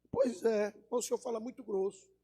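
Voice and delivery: soft, high gatekeeper; thin high voice. Acted. Gatekeeper faulting the cowboy's gruff talk, thin high voice. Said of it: "esse camarada fala fino".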